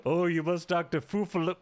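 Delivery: lightly put-on British accent; a hint of a posh British voice; mock British accent. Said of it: "like, British accent".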